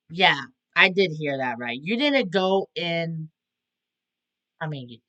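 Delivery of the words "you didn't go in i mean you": halting, lost for words; start, stall and trail off in bafflement; stuttering, losing it. Real, not acted. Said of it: "I'm stuttering, man. I'm just losing it".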